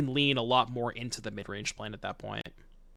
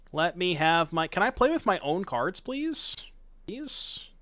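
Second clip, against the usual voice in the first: pleading; 5 semitones higher, slower than usual. Real, not acted. Begging opponent to stop.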